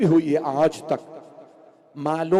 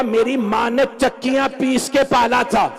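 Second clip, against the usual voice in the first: tearful plea; 7 semitones higher, 6 dB louder than usual. Acted. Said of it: "मैंने रो रो के कहा".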